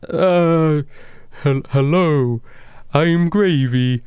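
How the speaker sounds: high, slow, halting character voice; nervous Gravy voice. Acted. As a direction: stammer a hello in a high, stretched-out voice. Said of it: "he says as he's".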